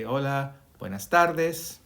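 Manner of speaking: slow, careful Spanish "buenas tardes"; teacher modelling "buenas tardes" slowly; Spanish greeting demo. Shown as a demonstration. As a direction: model "Hola, buenas tardes" for students to copy. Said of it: "so I would say".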